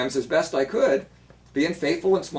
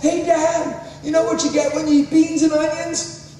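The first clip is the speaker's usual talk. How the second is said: mild mock yell; 8 semitones higher than usual. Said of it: "He yells across".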